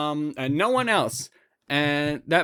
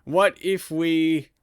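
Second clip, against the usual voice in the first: musing to herself. Retold or imitated. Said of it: "I thought to myself".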